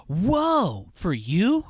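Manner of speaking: high gasped whoa for the dog; gasping pretend wonder at a pet; mock amazement. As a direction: play it as if dazzled.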